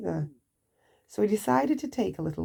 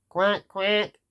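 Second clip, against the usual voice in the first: lightly voiced duck quack; a mild quack quack; worm quacking; 3 dB louder than usual. A narrator's reading. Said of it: "said the worm".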